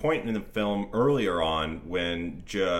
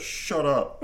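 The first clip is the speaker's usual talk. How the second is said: laughing mock guard; 5 semitones higher than usual. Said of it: "he just goes".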